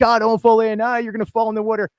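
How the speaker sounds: playful taunting warning, quick; mock kid warning, rushed at the end; teasing fake push. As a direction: tease a sibling at the water's edge. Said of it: "you're like".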